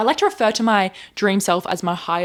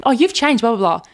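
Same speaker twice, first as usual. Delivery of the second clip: mock judgy people; 3 semitones higher, 4 dB louder than usual. To the viewer, mimicking people who say she changed, hammed-up sneer. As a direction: toss it off like a snide critic. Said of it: "people might say".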